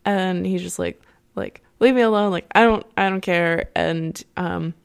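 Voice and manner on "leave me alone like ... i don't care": irritated brush-off. Retold or imitated. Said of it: "bored and irritated with her".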